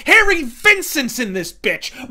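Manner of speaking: loud, drawn-out hype; slow booming hype call; excited shout. Real, not acted. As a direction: bellow it like a ringside announcer. Hyped reveal of serial cast.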